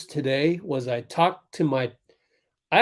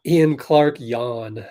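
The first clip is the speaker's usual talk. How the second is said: put-on slow Brazilian-accented call; 2 semitones lower, much slower than usual. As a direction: stretch the name out, Brazilian style. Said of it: "Saying it with the Brazilian accent".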